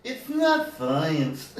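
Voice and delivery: very slow timid Norbit; meek Norbit. Pretend. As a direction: drag it out meekly. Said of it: "Do the voice".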